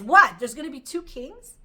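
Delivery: mock-indignant moon, loud burst on "What"; indignant objection. The moon insults the sun over sharing rule, indignant. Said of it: "insults the sun".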